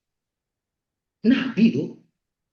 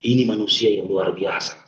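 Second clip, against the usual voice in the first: tearful prayer retold; 7 semitones lower than usual. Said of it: "Nangis aku sujud".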